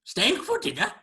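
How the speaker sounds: high, loud creature voice; creature host. Acted. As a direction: greet guests as an odd creature. Creature host greets the guests.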